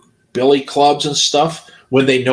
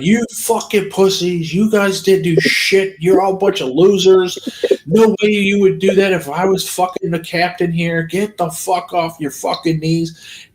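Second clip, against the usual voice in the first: retold yelling; 4 semitones higher than usual. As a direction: re-enact a scolding tirade at moderate volume. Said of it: "And I was yelling".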